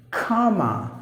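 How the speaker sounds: comma with an open, held ah; long sound. Shown as a demonstration. Teacher naming the punctuation mark, comma with long ah. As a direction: say comma as KAAH-muh. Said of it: "punctuation mark you say".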